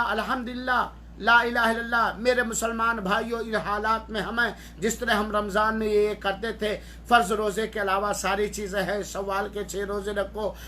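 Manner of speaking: sample home khutbah. Shown as a demonstration. Father addresses family after home prayer, in an effortless sample sermon. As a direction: rattle off a simple exhortation without pausing. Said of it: "खुतबा देना कोई बड़ा मुश्किल काम नहीं है".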